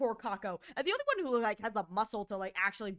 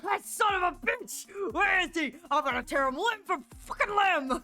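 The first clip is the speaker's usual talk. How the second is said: angry; 6 semitones higher, 5 dB louder than usual. Acted. Character raging after being stabbed.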